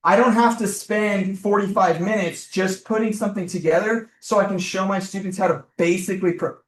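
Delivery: yelling. Real, not acted. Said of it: "What am I yelling for?".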